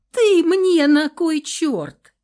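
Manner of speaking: high, loud, slow scoffing demand; scornful outburst. A narrator's reading. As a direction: throw the question at him. Heroine scoffs at witcher.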